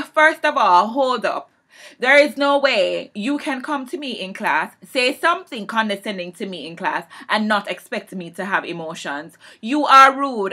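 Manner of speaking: loud, rising indignant scolding; telling him off. Retold or imitated. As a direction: lay into him, building to "you are rude". Retold confrontation, telling him off.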